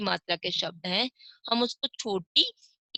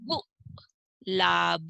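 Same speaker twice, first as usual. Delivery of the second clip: गुलाब drawn out slowly, lower; slow first take; 3 semitones lower, much slower than usual. Shown as a demonstration. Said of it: "आगे चित्र है".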